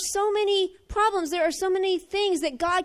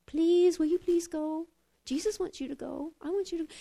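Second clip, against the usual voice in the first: timid pleading; 5 dB quieter than usual. Pretend. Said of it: "you can't please".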